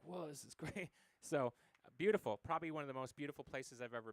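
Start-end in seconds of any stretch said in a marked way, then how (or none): 0.0-0.9 sarcastic whoa. Retold or imitated. Ironic reaction to murder news.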